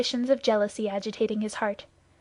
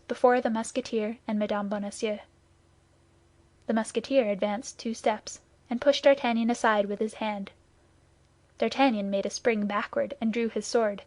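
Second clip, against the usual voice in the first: ordinary delivery, nothing marked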